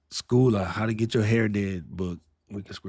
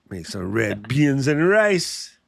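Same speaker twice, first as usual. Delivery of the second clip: put-on playful Jamaican accent, stretched words; mock Jamaican accent; 2 semitones higher, 3 dB louder than usual. Host joking about Jamaican reels, mock Jamaican accent. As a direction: put on a drawn-out Jamaican lilt.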